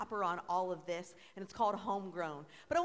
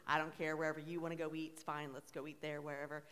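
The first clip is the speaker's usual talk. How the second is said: low, easygoing shrug of a voice; Pastor Stephen, laid back; 4 semitones lower than usual. Retold or imitated. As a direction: lightly imitate someone who doesn't mind either way. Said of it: "Pastor Stephen's pretty laid back".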